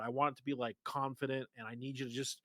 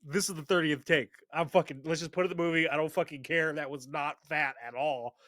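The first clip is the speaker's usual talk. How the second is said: fed-up director; 3 semitones higher, 4 dB louder than usual. Retold or imitated. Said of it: "the director's like".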